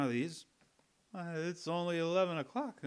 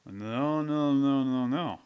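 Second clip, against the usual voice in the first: loud refusal; 6 dB louder, slower than usual. Acted. Refusing to pay, arguing.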